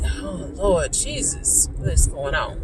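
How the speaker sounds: soft, slow sigh of a prayer; weary appeal to Jesus. Retold or imitated. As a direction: appeal quietly to Jesus, worn out. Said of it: "I'm sitting here and I'm like".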